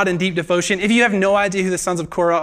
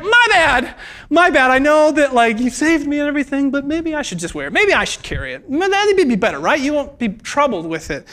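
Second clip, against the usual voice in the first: lightly acted sheepish excuse; sheepish mock apology; 5 semitones higher than usual. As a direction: brush it off like a kid caught out.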